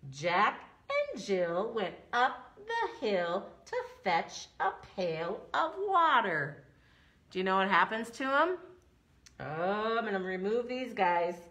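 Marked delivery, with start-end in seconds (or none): 0.1-6.6 nursery rhyme recitation. Pretend.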